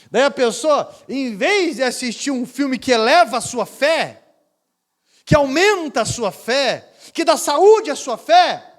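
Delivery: building to a loud, high, slow climax; rising sermon. Acted. Preaching climax.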